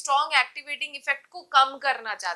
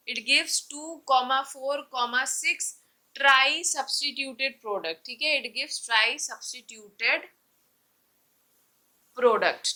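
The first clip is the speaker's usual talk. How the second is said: each word drawn out very slowly, as if writing on the board; slow dictation; much slower than usual. Shown as a demonstration. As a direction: spell out the product name slowly for students to copy. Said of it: "अभी सुनो समझ आ जाएगा".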